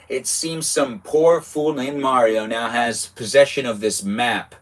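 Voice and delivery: slow, lightly acted villain scolding; a hint of an annoyed overlord; lightly voiced scolding boss. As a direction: boss reproaching his witch. Reads villain boss dialogue.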